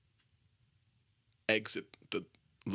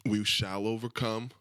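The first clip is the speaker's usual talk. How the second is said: rallying cry; 2 semitones higher, 4 dB louder than usual. Pretend. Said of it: "I'm not very good at fucking, pump-up speeches".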